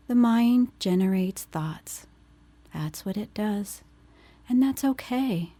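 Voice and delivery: unhurried phrases, leaving space to breathe between them; guided meditation. Acted. Leads grounding meditation after intro.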